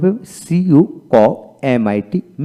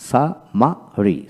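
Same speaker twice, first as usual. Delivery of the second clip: drawn-out demo; much slower than usual. Shown as a demonstration. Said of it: "syllable-by-syllable spelling demo".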